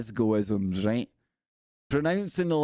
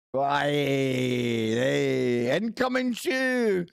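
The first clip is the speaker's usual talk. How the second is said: silly squeaky voice; 3 semitones higher, much slower than usual. Pretend. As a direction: burst in with a cartoonish squeak. Sudden silly outburst.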